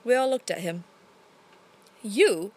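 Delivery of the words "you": mild surprised cry; a short startled you; cried out. Acted. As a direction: Burbage surprised at Shakespeare. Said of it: "cried Burbage".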